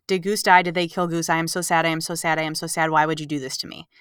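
rapid run-on reading of distraught notes; mock all-caps distress. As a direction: rattle off an overwrought lament in a monotone. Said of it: "in my notes in all caps".

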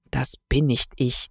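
quiet dismayed mumble; murmured. Acted. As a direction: mutter it to himself, stunned. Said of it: "murmelte er".

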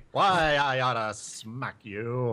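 slow tough-guy threat, lightly voiced; old-movie wise guy, half-hearted; 1920s gangster voice. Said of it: "stuck in nineteen twenties press mode".

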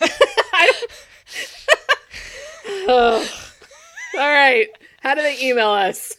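loud laughing through words. Real, not acted. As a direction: talk while laughing hard. Laughing fit.

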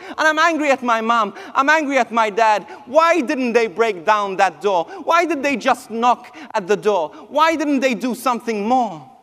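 heated, emphatic complaint; retold anger at parents. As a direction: relive the anger, hammering each question. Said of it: "I was angry at my parents".

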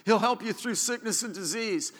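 ordinary talk, nothing marked

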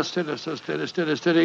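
doctor soothing a frightened patient. Acted. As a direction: gently settle him down. Doctor calming panicked patient.

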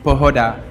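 pohoda said the Czech way, POH-ho-da; Czech word. Shown as a demonstration. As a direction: say pohoda with Czech vowels, stress on the first syllable. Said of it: "a word that Czechs like to use".

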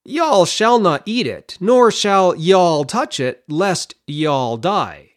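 slow quote, every "y'all" leaned on; quoting Eve. Retold or imitated. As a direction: stress each "y'all" as you slowly quote Eve. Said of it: "what she says is".

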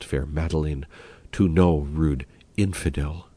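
woo your bride tenderly; Porphyro wooing. Acted. Porphyro woos his bride Madeline, lightly voiced lover.

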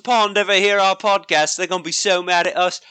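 half-laughing mock English accent; bad English accent. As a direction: attempt an English accent through amusement. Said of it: "worst English accents ever".

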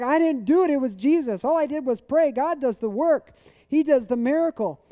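high, loud, urgent testimony; re-enacting a thrilled reply; retold excited insistence. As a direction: insist excitedly, deflecting all the credit. Retold excited reply, crediting Jesus.

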